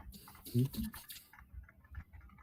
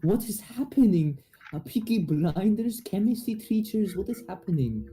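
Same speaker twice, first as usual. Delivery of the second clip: baffled; 7 semitones higher than usual. Real, not acted. Baffled by the chat's words.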